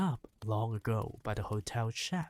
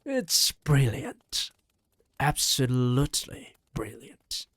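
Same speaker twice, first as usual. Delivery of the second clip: slow, louder delighted exclamation; delighted shout; 2 semitones lower, 4 dB louder than usual. Acted. Grandmother praises the boy's idea, a slow louder shout. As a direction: savour each word as she cheers, grinning. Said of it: "and she shouted".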